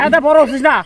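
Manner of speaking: scolding. Acted. Uncle keeps scolding.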